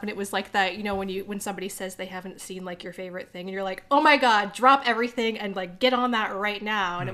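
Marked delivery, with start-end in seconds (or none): 3.9-7.0 excited gushing. Retold or imitated. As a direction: gush like a superfan. Quoting a fan's excited urging.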